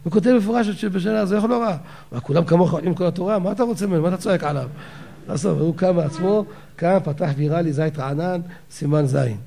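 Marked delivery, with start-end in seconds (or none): 1.3-1.8 higher mock indignant outcry; half-shouted, imitating the rabbi's protest; retold shout. Rabbi complains that his student missed the source, mock shouting. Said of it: "הרב ככה הקים קול צעקה". 2.1-4.7 rebbetzin scolding. Retold or imitated. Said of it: "הרבנית ... רצה".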